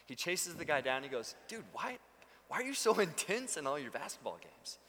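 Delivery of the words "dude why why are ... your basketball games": acted exasperated disbelief, pitch jumping up; mock-bewildered challenge to a buddy; baffled questioning. Pastor chases down the tryhard player, baffled.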